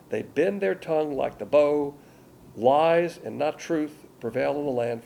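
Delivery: scripture reading. Acted. Preacher reading the prophet's words to the congregation, solemn proclaiming. Preacher reads Jeremiah aloud.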